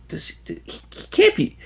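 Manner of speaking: very high, stammering realisation; mock disbelief. Retelling Clint realising about Daredevil, high stammering disbelief. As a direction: stammer it high as the baffled hero. Retold hero's dawning disbelief.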